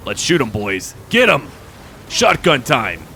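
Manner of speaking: gleeful commander's shout; rallying cry. Pretend. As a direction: whoop the troops into the attack. Rallying troops in battle.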